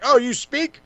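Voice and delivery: high, sarcastic mock astonishment; mock surprise. Host teasing Marina Shafir for talking, high sarcastic surprise. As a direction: feign shock that she can talk. Mocking a silent wrestler talking.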